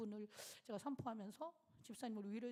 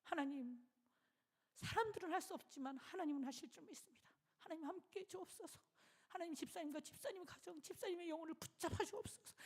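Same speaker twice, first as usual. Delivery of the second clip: prayer; 5 semitones higher, 4 dB quieter than usual. Retold or imitated. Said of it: "그 전화기를 붙잡고 기도했어요".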